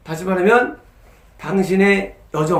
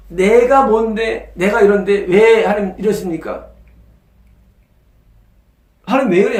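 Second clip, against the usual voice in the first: imitating a complainer; 4 dB louder than usual. Preacher imitates a proud believer complaining to God, mild mock whine. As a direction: play the proud man whining to God, half-mocking. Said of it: "하면서 불평하는 거예요".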